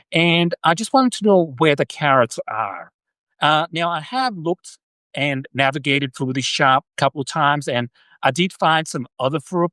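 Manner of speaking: attempted formal old-school Southern accent; a foreigner's go at a formal Southern US accent; American Southern accent. Shown as a demonstration. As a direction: put on a hammy, polite Southern American accent. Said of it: "I'll do one more accent".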